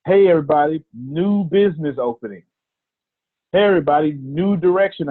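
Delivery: lightly voiced cheery Facebook post; mock the hype of a generic "new business" post; a touch of fake excitement; mocking announcement. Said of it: "I hate when people do this on Facebook".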